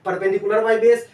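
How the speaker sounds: slow dictation. Shown as a demonstration. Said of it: "एक formula से भी हम काम चला सकते हैं".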